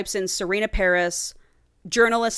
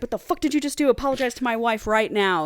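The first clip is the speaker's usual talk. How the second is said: raised-pitch angry demand, not a full scream; mock alpha scream; 3 semitones higher, faster than usual. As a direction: imitate an alpha ordering an apology. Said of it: "screaming in his alpha voice".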